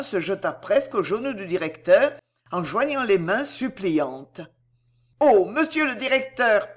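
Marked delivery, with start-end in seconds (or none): 5.2-6.7 higher, louder crying appeal; mother begging the headmaster, weeping; tearful plea. A narrator's reading. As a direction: beg the headmaster through tears. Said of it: "pleura-t-elle".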